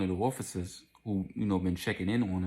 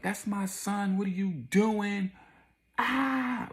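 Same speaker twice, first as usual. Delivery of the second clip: high, drawn-out screaming wail; high mock-hysterical cry; horrified mother imitation; 13 semitones higher, much slower than usual. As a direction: act out a mother screaming for her son. Mother sees son shot.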